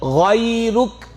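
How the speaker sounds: غیرک with a clear guttural غ from the throat; careful recitation of the word; correct pronunciation. Shown as a demonstration. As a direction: say غیرک the proper Quranic way. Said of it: "یہ غیرک نہیں ہے بلکہ غیرک".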